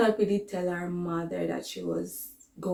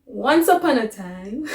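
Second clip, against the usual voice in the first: laughing; 4 semitones higher, 4 dB louder than usual. Real, not acted. Laughing through story opening.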